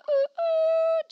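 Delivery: high, loud, drawn-out oohs; big hooting ooh. Pretend. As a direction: sustain a high-pitched ooh. Singing out mid email reading.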